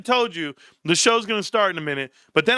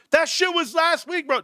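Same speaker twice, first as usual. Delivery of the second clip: mock reply; 9 semitones higher than usual.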